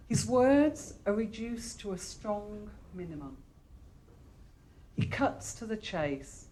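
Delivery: measured read-aloud with pauses between phrases. Acted. Librarian reading an internet profile of the guest poet to an audience, measured read-aloud. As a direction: read it out phrase by phrase, leaning on key words.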